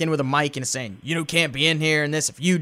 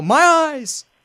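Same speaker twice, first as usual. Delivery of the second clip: mock very high, loud shout; 11 semitones higher, 5 dB louder than usual. Recapping a segment, acting out a guy in the crowd yelling. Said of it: "you hear a guy in the crowd yell".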